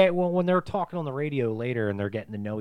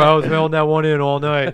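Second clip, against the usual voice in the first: high goofy voice; 5 semitones higher, 12 dB louder than usual. Retold or imitated. Guard leaving the bathroom.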